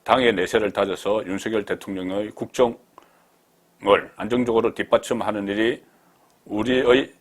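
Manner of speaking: reading a written statement out firmly; emphatic read-aloud. Acted. Reads politician's post aloud.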